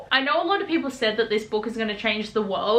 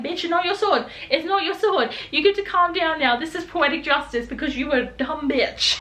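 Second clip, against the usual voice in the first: sassy retort; 5 semitones higher than usual. Retold or imitated. Reader talking back to Zara.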